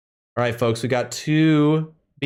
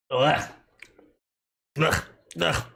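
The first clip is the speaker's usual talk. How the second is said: disgusted groans; 3 dB quieter, slower than usual. Real, not acted. Tasting the disgusting bean.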